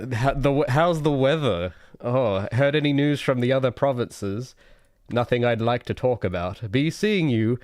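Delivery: a hint of a canned video game villager greeting; Oblivion NPC. Streamer mocking his own small talk, lightly voiced NPC chatter. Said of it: "I do it like an Oblivion N P C".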